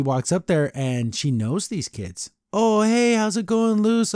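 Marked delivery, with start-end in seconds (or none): 2.5-4.1 higher, bright-eyed greeting in V's voice; hammed-up high chirpy hello; cheery V voice. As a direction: greet them like old camp friends.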